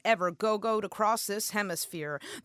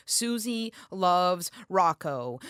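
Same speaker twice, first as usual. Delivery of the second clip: dreamy; 3 semitones lower, slower than usual. Retold or imitated. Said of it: "eyes closed as she describes him".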